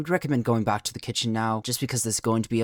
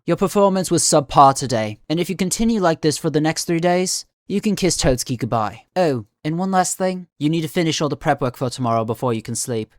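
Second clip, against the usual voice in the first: louder, firm dressing-down from the chef; stern scolding; 3 semitones higher, 6 dB louder than usual. Acted. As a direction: lay down the law to a trainee. Chef scolding a trainee's performance.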